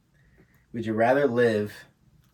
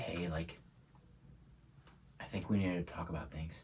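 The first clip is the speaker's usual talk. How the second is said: put-on soft, lower, hesitant girlfriend; acted serious talk; 3 semitones lower, 14 dB quieter than usual. Girl sitting a guy down to talk, acted quiet seriousness. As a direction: broach it quietly and gravely. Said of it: "in a serious conversation".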